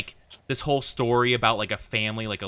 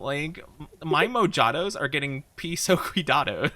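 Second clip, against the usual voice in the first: put-on Valley Girl accent; 4 semitones higher than usual. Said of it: "bad Valley Girl accent".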